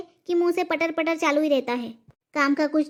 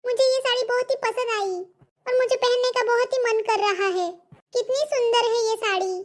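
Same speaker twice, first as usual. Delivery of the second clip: butter her up in a higher voice; sugary daughter-in-law; 5 semitones higher than usual. Acted. Daughter-in-law coaxes mother-in-law to wear the sari, higher and sweet.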